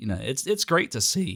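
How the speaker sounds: choking up mid-sentence, voice cracking. Reacting to scripts with Toriyama's input, voice cracking with emotion. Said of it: "I'm not choking up. That was just a voice crack".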